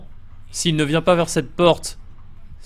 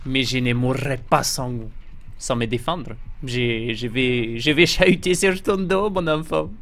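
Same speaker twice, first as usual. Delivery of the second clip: mock Spanish character; 3 semitones lower, slower than usual.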